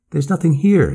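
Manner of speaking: high, loud exclamation; shouting. A narrator's reading. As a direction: shout it out in dismay. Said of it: "he shouted".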